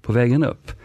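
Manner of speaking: scatterbrained boss directing staff; hasty boss. Retold or imitated. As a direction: improvise the plan on the spot. Boss improvising orders in story.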